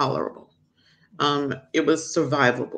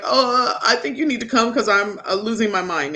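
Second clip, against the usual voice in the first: mild retold panic; 6 semitones higher, 3 dB louder than usual. Retold plea to work husband.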